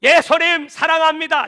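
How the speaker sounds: loud, high, slow confession; slow fervent declaration. Shown as a demonstration. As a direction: say it slowly with full heart. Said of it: "이 말씀을 잘 들으시고 지금부터".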